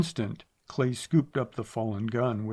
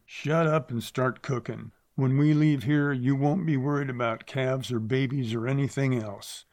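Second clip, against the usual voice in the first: gruff grunt; 2 semitones higher than usual. Acted. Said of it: "Zach grunted".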